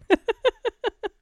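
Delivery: high, bright laugh at the punchline; cracking up after the joke; burst of laughter. Real, not acted. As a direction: laugh out at your own joke.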